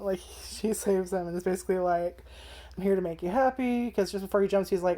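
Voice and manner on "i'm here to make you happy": higher-pitched, lightly voiced angel; a touch of cheery angel sweetness; upbeat angel. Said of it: "she has a very upbeat voice".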